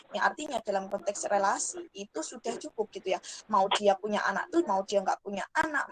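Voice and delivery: faint, distant mic sound; speaking too quietly into the mic; barely audible. Real, not acted. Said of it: "Mohon maaf, suaranya terlalu kecil". (suara terlalu kecil)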